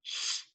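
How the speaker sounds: "sh" as a long soft hiss with no vowel; isolated last sound. Shown as a demonstration. Teacher naming the last sound she hears, isolated and soft. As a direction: sound out just "sh", the end of push. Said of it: "Now that last sound, I know it".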